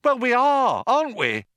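high, loud protest; agitated insistence. A narrator's reading. Arthur arguing back at Ford, agitated protest. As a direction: insist on it, voice shooting up.

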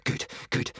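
hushed, whispery mutter; low-volume private aside. A narrator's reading. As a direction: mutter it softly to yourself. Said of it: "muttered Hiccup".

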